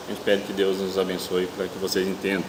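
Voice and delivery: talking through tooth pain; speaking carefully with a sore tooth; toothache. Real, not acted. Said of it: "Eu tô com um probleminha de dor de dente aqui".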